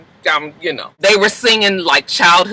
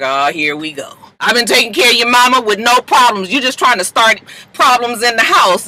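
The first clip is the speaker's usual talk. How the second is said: defensive father, raised voice; annoyed dad voice; 5 semitones higher than usual. Retold or imitated. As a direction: push back like an irritated dad. Daddy voiced arguing back.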